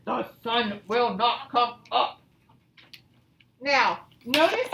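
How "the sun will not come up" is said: lightly voiced emphatic bear; a hint of a stubborn storybook bear; insistent Bear. Reads Bear's answer.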